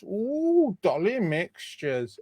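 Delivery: a high swooping ooh, then a slow, lightly put-on drawl; silly put-on voice. Host showing off sweets on a live raffle, lightly put-on silly voice. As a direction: play up the treat like a giddy sweet-shop fan. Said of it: "Don't know why I'm doing that voice".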